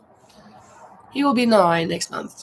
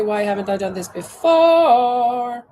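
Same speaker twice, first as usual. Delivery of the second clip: excited; 3 semitones higher, 6 dB louder, slower than usual. Real, not acted. Delighted at her crochet result.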